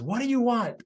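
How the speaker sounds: retold testy challenge; upset. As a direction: imitate an upset man answering the door. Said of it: "he's all upset".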